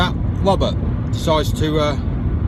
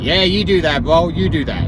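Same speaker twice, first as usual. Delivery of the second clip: loosely put-on American accent. Applicant lets the circus man explain, mock American accent. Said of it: "that's the part of the American accent".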